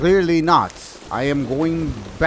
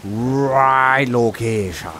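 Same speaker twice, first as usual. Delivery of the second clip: put-on pirate accent. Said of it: "let me stop this accent".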